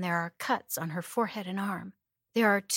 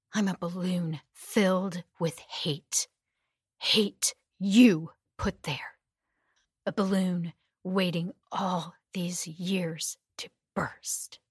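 slow menacing; slower than usual. Acted. Captor's slow menacing speech.

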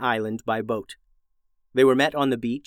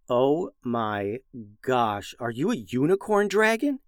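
amazed. Acted. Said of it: "June asked".

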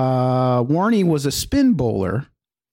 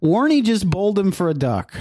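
higher-pitched put-on Aussie accent; playful Australian impression, pitched up; 7 semitones higher than usual. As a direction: read it out in a mock Australian voice. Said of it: "in your best Australian accent".

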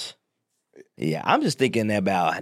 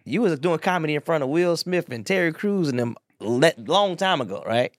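mock surprise; 5 semitones higher than usual. Imagined surprised people.

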